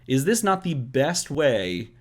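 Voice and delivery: eager, rising pitch rant; overexcited babbling. Real, not acted. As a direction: pile on the excitement. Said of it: "I hope you see I'm super excited about this".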